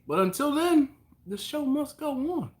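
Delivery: theatrical. Acted. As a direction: proclaim it like a stage actor. Theatrical declaration on stream.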